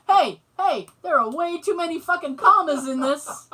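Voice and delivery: loud, high, laughing objection; hammed-up outcry over the bill; mock protest. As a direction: protest loudly, half laughing. Acted protest at the price.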